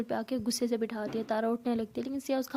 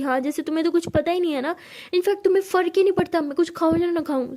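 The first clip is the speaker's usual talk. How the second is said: angry sarcasm; 5 semitones higher, 5 dB louder than usual. Acted. Tara sulking angrily.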